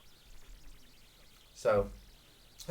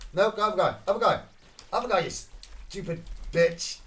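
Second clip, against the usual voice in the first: loud, high exasperated shout; angry gamer at his teammate; frustrated yell; 6 semitones higher, 5 dB louder than usual. Real, not acted. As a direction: snap at the dumb AI.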